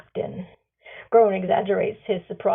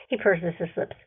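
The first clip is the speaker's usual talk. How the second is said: usual speaking voice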